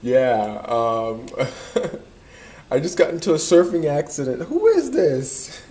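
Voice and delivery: a hint of a prank caller faking a surfing accident, fast and high; mock caller voice, lightly put on. Kid on a payphone prank calling a stranger, a hint of a mock caller voice. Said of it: "call them on a payphone and be like".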